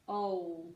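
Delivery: "ol" with a w-like glide before the L; drawn-out teaching syllable "ol"; imaginary W. Shown as a demonstration. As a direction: sound out "ol" alone, rounded like "owl" with an O. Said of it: "imaginary W in there".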